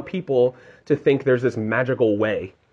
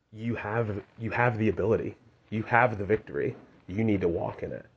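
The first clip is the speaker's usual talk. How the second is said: much softer, tender encouragement; gentle Lord; 7 dB quieter than usual. Retold or imitated. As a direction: speak it like a loving reassurance. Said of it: "the Lord saying".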